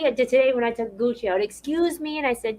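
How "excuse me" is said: put-on high, softer little-kid voice; high-pitched timid child voice; imitating a child. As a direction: ask it like a shy child. Retelling polite child's question.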